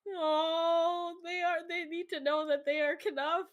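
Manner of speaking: high, loud gushing over something adorable; gushing mock coo. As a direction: coo it up high, breaking toward a laugh. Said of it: "I'm just like".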